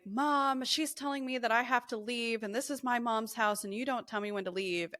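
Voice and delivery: high-pitched tattling to mom, imitated; mock outburst. Sibling complains to mom about being told to leave, mock screaming. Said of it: "started screaming".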